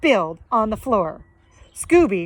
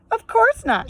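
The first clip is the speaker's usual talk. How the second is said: Miss Pinchface voice; 12 semitones higher than usual. Acted.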